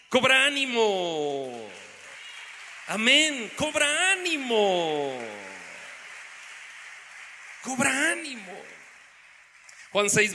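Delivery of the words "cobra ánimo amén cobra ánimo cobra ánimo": slow preacher's call to take heart; drawn-out exhortation. Real, not acted. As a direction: stretch the words out to rally the congregation.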